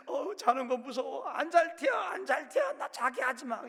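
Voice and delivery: high, loud, whining protest at bedtime; scared whiny refusal. Pretend. Someone refusing bed, afraid of sleep, whining loudly. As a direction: wail like a child who won't go to sleep.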